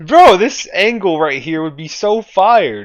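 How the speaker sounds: high, loud and slow, hyped up. Real, not acted. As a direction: gush about the angle. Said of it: "hyped about the angle".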